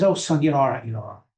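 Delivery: father waving off an apology; retold fatherly brush-off, falling away; dismissive reassurance. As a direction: start loud, then drop away soothingly.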